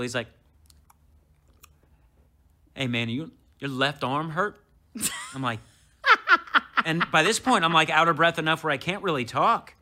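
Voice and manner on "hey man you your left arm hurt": casual. Retold or imitated. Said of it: "like, real casual".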